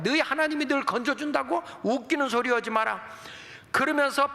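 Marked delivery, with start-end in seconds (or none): 0.0-3.0 higher-pitched mock taunt. Enemy envoys scoffing at the people's God, mocking. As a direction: jeer like a scornful enemy envoy. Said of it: "막 조롱하는 거예요".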